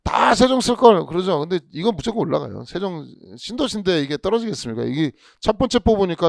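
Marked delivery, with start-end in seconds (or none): 0.0-1.1 higher, slow, rueful "should have"; slow mock regret over a lost chance; regretful sigh. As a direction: sigh it out like a candidate who missed out. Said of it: "다들 그러는 거예요".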